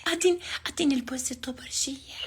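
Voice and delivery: man doing a woman's voice. Acted. Whispered flirty request.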